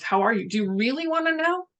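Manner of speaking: lightly voiced nosy aunt; mock aunt. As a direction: pitch climbs high on wanna, teasing. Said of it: "have one of my aunts".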